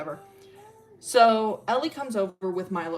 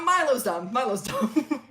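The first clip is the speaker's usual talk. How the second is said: helpless, high-pitched laughter through the words; real laughing; 4 semitones higher, 4 dB louder, slower than usual. Real, not acted. Storyteller laughing at Milo's dumbness, laughing as they speak. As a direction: talk while cracking up. Cracking up at own character.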